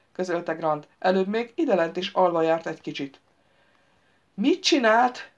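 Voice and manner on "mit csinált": shocked gasp. A narrator's reading. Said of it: "Hördült a família kánonban".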